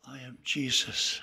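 low, measured divine answer; Jesus. Retold or imitated. Heavenly voice answering fallen Saul, low declaration. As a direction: declare who you are in a low voice, with pauses. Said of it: "He hears a voice".

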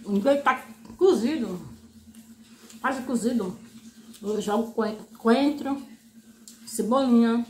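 talking with food in mouth; muffled by chewing; chewing while talking. Real, not acted. Seen 1: Bit chicken at -1.0; jaw and cheeks keep working between words.

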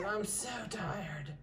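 tired puppy voice. Pretend. Breeder speaking for a tired newborn puppy, slow and soft. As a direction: drag it out like a drowsy pup. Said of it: "She said".

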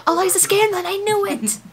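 high, loud fan squeal; excited squeal. Real, not acted. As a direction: burst out in delighted recognition. Viewer recognises actress, thrilled.

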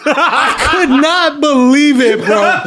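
laughing disbelief. Real, not acted.

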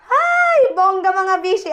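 high, loud "ay"; excited gush. Real, not acted. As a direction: gush with glee. Gushing over her achievement.

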